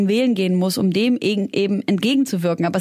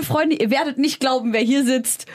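excited announcement; 5 semitones higher than usual. Real, not acted. Announcing the guest.

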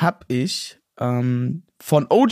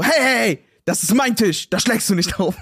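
mock scolding; 6 semitones higher than usual. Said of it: "Und dann meinte ich so".

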